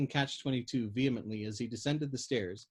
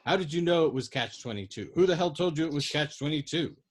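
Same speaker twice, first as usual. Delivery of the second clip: loud, baffled angry protest; bewildered furious shout; 4 semitones higher, 4 dB louder than usual. Acted. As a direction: shout it at her, furious and confused. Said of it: "shouted at her in bewildered, furious protest".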